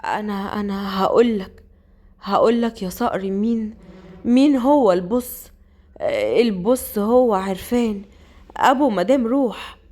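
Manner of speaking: very slow, laboured words; dying breaths. Acted. Dying man tells Saqr who the boss is, slow and laboured. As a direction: drag each word out with the last of your strength. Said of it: "وهو بيتنفس أنفاسه الأخيرة".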